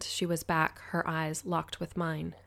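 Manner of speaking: ordinary delivery, nothing marked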